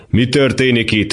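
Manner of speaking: father confronting son in hallway, angry. Acted. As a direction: bark the question at the son. Father demands explanation.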